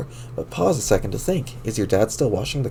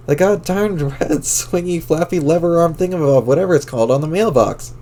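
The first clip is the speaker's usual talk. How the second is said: excited; 6 semitones higher than usual. Acted. Frantic over mailbox flag.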